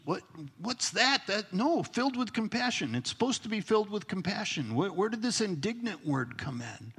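mock incredulous. Reader balking at an unwelcome Bible word, mock incredulous. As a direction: play a lightly baffled, protesting reader. Voices listener objecting to the word.

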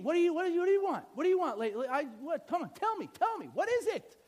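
high-pitched, impatient pleading; urgent, repeated begging to be told; eager anticipation. Acted. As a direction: act out a king bursting to know. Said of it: "on the edge of his seat".

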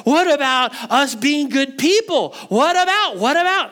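high, agitated objecting listener; tense objection. Acted. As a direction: protest with rising urgency, pitched well up. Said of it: "the tension that you're having".

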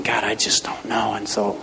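soft, whispered prayer to God; whispered plea. Retold or imitated. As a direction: barely voice a desperate prayer. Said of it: "people crying out and saying".

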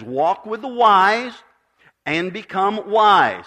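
slow, weighty reading of the verse; slow scripture reading, a pause before and become wise; solemn scripture quote. Shown as a demonstration. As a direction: read it like holy words, spaced out. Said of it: "It says".

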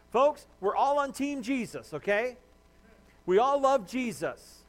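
earnest appeal. Real, not acted. Pastor urging congregation they're one team, earnest and loud. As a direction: lean in and plead it slowly.

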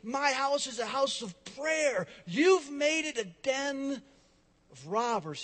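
a touch of holy fury; righteous anger. Retold or imitated. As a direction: thunder it like Jesus in the temple. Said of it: "and he says".

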